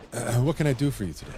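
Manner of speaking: imitating a British phone agent, brisk; quick British customer-service greeting, lightly mimicked; British accent. Cancellation agent greeting a customer, quick mock British accent. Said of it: "British accent".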